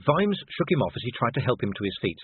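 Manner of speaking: usual speaking voice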